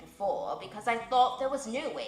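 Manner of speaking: stately owl advising the widow; wise old owl. Acted. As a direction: speak as the solemn old owl giving counsel.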